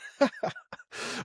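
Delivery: laughing. Real, not acted. Laughs at the co-speaker's rant.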